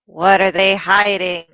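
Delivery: deliberate, pointed wondering; wondering aloud. Acted. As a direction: muse aloud, drawing the words out. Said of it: "out loud".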